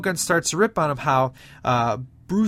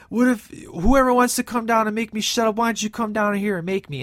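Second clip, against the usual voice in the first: villain's challenge; 6 semitones higher than usual. Retold or imitated. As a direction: taunt the whole crowd to come at you. Shogun challenges the crowd.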